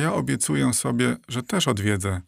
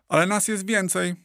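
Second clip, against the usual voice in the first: much higher yell back; 9 semitones higher than usual. A narrator's reading. Gull yelling back at the cormorants, much higher and defiant. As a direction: fling the retort right back. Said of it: "odwrzasnęła mewa".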